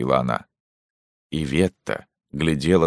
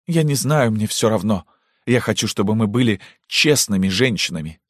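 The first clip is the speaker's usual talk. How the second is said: defiant; 7 semitones higher than usual. Acted. Daughter insisting.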